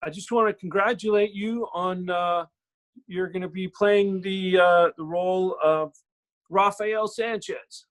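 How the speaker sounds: halting, drawn-out official congratulations; Gary. Retold or imitated. Producer phoning an actor with casting news, lightly imitated formal delivery. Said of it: "and he's like".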